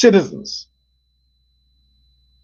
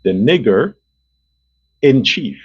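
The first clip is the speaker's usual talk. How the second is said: slow and lower, each word spaced out; said slowly; 7 semitones lower than usual. Shown as a demonstration. Repeating the insult for his viewers, slowly and lower. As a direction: drag it out word by word to make it sink in. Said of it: "I'll say it slowly".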